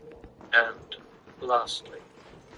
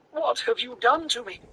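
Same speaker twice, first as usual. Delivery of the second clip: demanding; 11 semitones higher than usual. A narrator's reading. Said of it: "he demanded".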